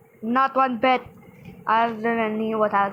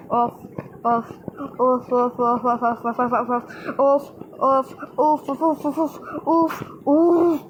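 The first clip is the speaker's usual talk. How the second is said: imitated oofing. Imitating bald girl's repeated noise.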